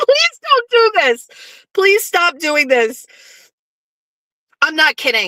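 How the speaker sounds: high voice, words breaking up into laughter. Reacting to something in the chat, laughing while talking. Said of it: "I'm laughing. I have tears".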